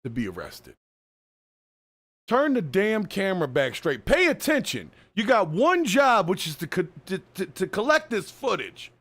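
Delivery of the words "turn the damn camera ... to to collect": emphatic telling-off with pitch jumps; exasperated scolding. Real, not acted. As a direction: scold an inattentive cameraman. Scolding the cameraman in the clip.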